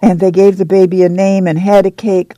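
put-on a young mother telling Ma of the camp, bubbling with excitement; excited girl. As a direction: let the words bubble out, eager and quick. Excited girl's long speech.

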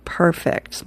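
soft, breathy, unvoiced "Perfect"; a whispered, deadpan "Perfect"; dry mom. Mom answers the kids' orders, in a soft whisper.

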